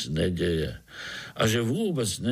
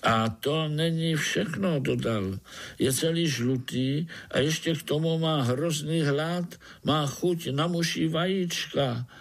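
lightly voiced higher spider; little spider Pája; 6 semitones higher than usual. Spider explaining to the overseer, gently higher voice. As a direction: explain timidly to the boss.

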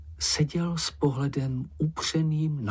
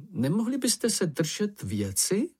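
slow, earnest plea in a higher voice; pleading; 9 semitones higher than usual. A narrator's reading. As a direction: beg them to stay on topic. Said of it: "poprosil je snažně Ferko". (snažně prosebně, pomalu)

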